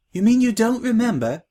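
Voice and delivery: a light gasp of disbelief; surprised. Acted. New girl to Scratch, surprised.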